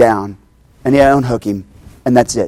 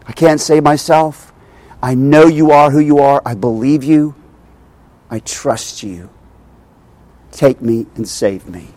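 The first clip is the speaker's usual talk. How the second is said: prayerful; 3 semitones lower, 3 dB quieter than usual. Retold or imitated. Voicing a believer's prayer of trust.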